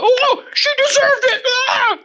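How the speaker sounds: squeaky high sneering impression with a laugh; a laughing, whiny mock voice; mocking callous voice. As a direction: parody the heartless bystander.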